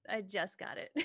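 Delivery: breaking into laughter on the repeat; line dissolving in giggles; laughing through it. Acted. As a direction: say it again while cracking up. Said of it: "he's like".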